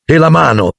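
high, eager interjection; excited chatter. A narrator's reading. Excited pupils boast after class. (intervento eccitato, voce acuta)

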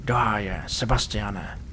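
lightly voiced friend, alarmed, falling tune; a hint of the panicked friend. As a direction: call out to him in alarm. Friend kneels beside collapsed narrator.

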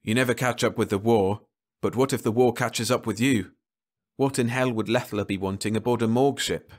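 a hint of dawning alarm; Burnett, alarmed. Burnett realising why Leffler came aboard, mildly alarmed.

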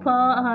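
"با" said alone as a single syllable; syllable broken out. Shown as a demonstration. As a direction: sound out "با" separately. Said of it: "هذا مقطع".

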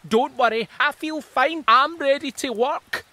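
high, eager worm chorus. Acted. Worms telling the plants they're ready to work. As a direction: sound keen and ready. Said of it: "said a chorus of worms".

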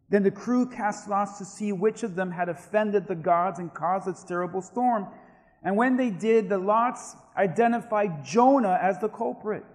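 animated Bible narration, building in energy; scripture story reading. A narrator's reading. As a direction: tell it with mounting drama. Reads scripture aloud as a story.

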